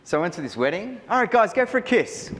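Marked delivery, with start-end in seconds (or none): 1.1-2.3 put-on much higher, louder overeager kid copying the line; a sixteen-year-old trying too hard; eager teenage copy. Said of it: "It didn't sound good coming from my mouth".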